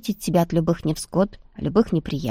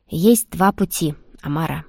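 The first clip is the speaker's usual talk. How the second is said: seriously. Acted. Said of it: "на удивление серьёзно сказал Айс". (серьёзно и медленно)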